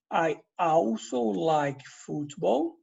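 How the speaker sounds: slow, clear model sentence, also stressed; slow teaching demo. Shown as a demonstration. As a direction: say it slowly so students can repeat. (frase modelo bem devagar)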